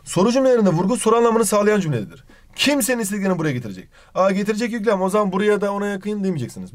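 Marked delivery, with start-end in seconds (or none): 2.6-3.9 KIM set higher at the start of a quick question; stress on Kim. Shown as a demonstration. Teacher demonstrates question emphasis for students, stress on "Kim". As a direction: hit "Kim" first, then run on quickly. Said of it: "Burada vurgu kimdedir".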